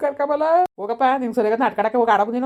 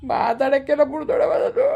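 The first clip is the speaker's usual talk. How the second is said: sulky acted crying; 3 semitones higher than usual. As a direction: sob out the words in a huff. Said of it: "ಸುಮ್ನಿರ್ಲ ಅಳ್ಬೇಡ". (ಅಳುತ್ತಾ ಮಾತು)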